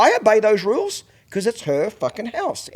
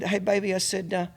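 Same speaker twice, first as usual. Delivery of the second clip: real calm; 2 semitones higher, 8 dB quieter than usual. Retold or imitated. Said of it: "I just real calmly".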